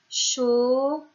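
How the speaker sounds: CHAUFFAGE stretched slowly into chau, fa, ge; word by syllables. Shown as a demonstration. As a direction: draw out each syllable of CHAUFFAGE. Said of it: "avec les syllabes". (« chauffage » découpé lentement : chau, fa, ge)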